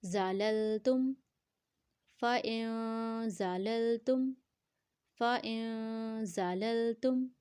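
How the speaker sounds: "زَلَلْتُمْ" opened with a hard buzzing z; firm whistling za. Shown as a demonstration. Teacher models the whistling letter za, firm articulation. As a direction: hold the nasal end of "فَإِنْ", then a firm z in "زَلَلْتُمْ". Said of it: "زا کو سختی سے پڑھیں گے".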